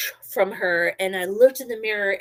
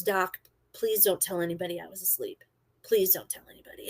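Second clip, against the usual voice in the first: soft, lowered confidential begging; hushed plea; 3 semitones lower, 9 dB quieter than usual. Retold or imitated. New guy asking Doc to keep a secret, hushed. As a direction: plead under your breath, low and soft.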